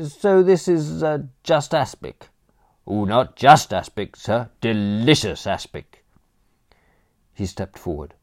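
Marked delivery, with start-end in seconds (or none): 0.1-2.3 unvoiced whisper of doubt; hushed doubt. Bertram to the butler, whispering his dismay. 2.9-6.0 chirpy cockney reassurance; cheery butler. Acted. Butler Crawshaw to Bertram, chirpy cockney reassurance.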